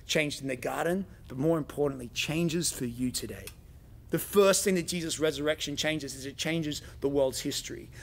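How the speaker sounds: usual speaking voice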